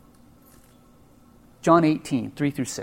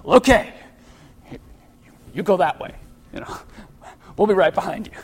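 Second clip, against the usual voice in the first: sheepish arrest party; 3 semitones higher, 5 dB louder than usual. Retold or imitated. The stunned soldiers nervously defer to Jesus with a whispered laugh. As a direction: hang back nervously, half laughing. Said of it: "looking at you like".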